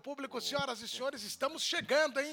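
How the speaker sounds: booming circus announcer voice; ringmaster. Pretend. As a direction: call it out like a ringmaster.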